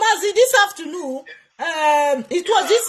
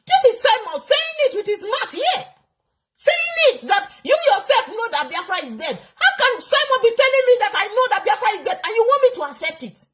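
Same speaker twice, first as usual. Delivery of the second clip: angry; 3 semitones higher than usual. Real, not acted. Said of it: "never seen you vex like this".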